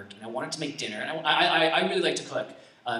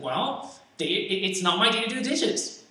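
pitched-up mock complaint; indignant protest; 5 semitones higher than usual. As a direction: act out someone insisting on fairness. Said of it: "wanna be just and be like".

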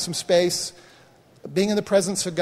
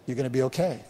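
lower, gently understated comfort; quiet retold reassurance; 5 semitones lower, 4 dB quieter, faster than usual. Son relaying his Father's words, quietly reassuring. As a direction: relay the comforting answer, low and soft. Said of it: "What's your daddy saying?".

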